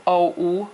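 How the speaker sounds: o then oo, split apart slowly; sounds of whoa. Shown as a demonstration. Teacher shows the vowel parts of whoa, slowly split. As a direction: break the vowel into its two parts. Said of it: "you start with an oo".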